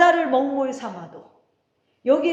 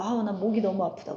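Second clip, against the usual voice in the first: mock complaint; 4 semitones lower, 4 dB quieter than usual. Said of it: "목이 막 아파가지고".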